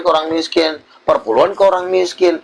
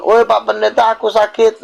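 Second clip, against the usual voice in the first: a higher, pleading sick caller; calling pastor; 7 semitones higher than usual. Retold or imitated. A sick churchgoer phones the pastor, in a higher pleading voice. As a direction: call out to the pastor, sounding sick and needy.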